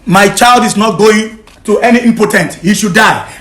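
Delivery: heated, emphatic protest; angry refusal. Real, not acted. Husband refusing to hand over his child, angry refusal. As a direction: refuse it in real anger.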